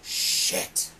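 breathy whispered shit under the breath; hushed dismayed swear; whispered curse. Retold or imitated. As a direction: whisper it like you just got caught out. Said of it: "it was just like".

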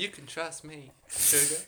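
put-on harlot's sweet-talk in an American accent. Harlot asking investigators to trust her, put-on American accent. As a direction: coax them in an assumed American accent. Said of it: "This is very American".

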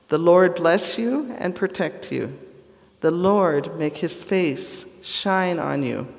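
measured, deliberate reading of a blessing; Scripture benediction reading. Acted.

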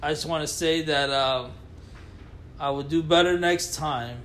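slow, solemn press-statement apology; mock public apology. Co-host apologizing to Scotland, slow mock-solemn statement. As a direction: read it like a formal apology. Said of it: "That sounded sincere".

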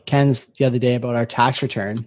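talking with a toothbrush in; words through toothpaste foam; brushing teeth. Real, not acted. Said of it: "Sorry, I'm foaming up here".

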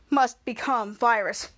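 low villain monotone; low, slow virus voice. Retold or imitated. Virus speaks.

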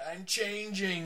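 lightly acted movie monster cry; changing wolf man. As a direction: play at transforming in an old creature feature. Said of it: "they just call it The Changing".

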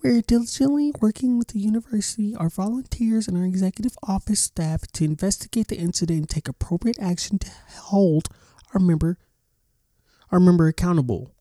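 sarcastic official-statement impression; mock statement voice. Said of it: "Should I read it in the voice?".

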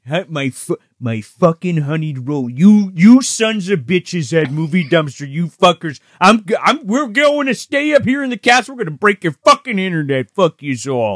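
mock furious rant at Movie Dumpster; angry rant. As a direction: rant like a cranky boss, cursing. S0 plays angry Charnetsky ranting.

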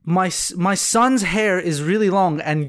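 slow, spelled-out retold correction; pointed explanation. Father carefully correcting the trainee about his son, slow and pointed. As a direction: spell it out slowly, word by word. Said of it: "یعنی، پین پوینت کرد".

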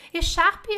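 teacher modelling French; slow French model. Shown as a demonstration. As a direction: stretch Écharpe slowly. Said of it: "é um cachecol".

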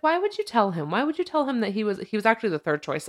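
exasperated disbelief; indignant. Real, not acted. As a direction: pitch jumps up, why would you. Indignant at the agent.

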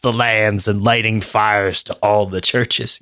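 slow, ominous black metal prophet; doomy metal voice. Pretend. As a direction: intone it like a grim Norse doom-sayer. Mocking doomy Nordic metal band.

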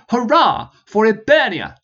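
loud, high cry, pushing harder; repeated shout. Acted. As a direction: repeat it to shame them into cheering. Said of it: "he repeated, disappointed".

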